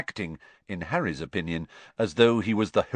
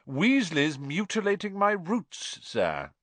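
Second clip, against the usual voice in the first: high-pitched drawled complaint, dropping at the end; drawling; 10 semitones higher than usual. A narrator's reading. Malfoy telling on Weasley to Snape, drawling. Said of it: "drawled Malfoy".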